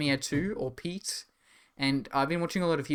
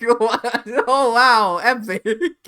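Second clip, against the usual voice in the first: mock Australian amazement; 8 semitones higher, 10 dB louder, much slower than usual.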